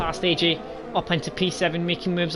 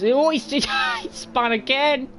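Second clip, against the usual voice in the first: 1 excited shout; 9 semitones higher than usual. Real, not acted. Laughing at a driver spinning out.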